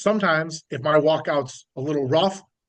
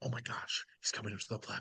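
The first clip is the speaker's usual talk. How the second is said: hushed, theatrical, dramatic sports-commentator whisper; 7 semitones lower, 19 dB quieter than usual. Mocking powerlifting commentary, dramatic whisper. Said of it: "like they do the dramatic whisper".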